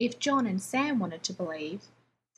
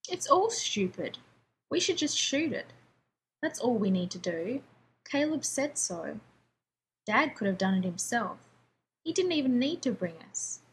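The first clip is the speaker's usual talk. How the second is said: sulky and annoyed. Acted. Sulky kid brother arguing.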